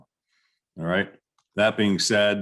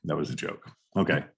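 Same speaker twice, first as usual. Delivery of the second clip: normal talking voice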